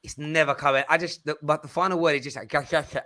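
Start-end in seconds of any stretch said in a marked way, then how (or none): 2.5-3.0 "Gash, gash, gash" as a mangled try at Başakşehir; Cockney speaker failing a Turkish name; failed pronunciation. Shown as a demonstration. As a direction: stumble over the Turkish ending as gash gash gash. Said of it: "I can't say it".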